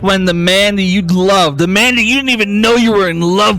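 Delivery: slow, grave storyteller building tension; dramatic scene narration. Acted. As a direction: paint the haunting memory slowly.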